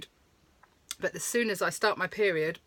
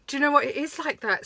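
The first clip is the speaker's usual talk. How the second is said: laughing reply; 7 semitones higher, 5 dB louder than usual. Retold or imitated. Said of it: "I was like".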